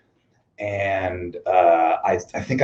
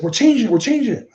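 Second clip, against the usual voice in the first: mock wrestler hushed order; 13 semitones higher, 3 dB louder than usual. Voices the other wrestlers.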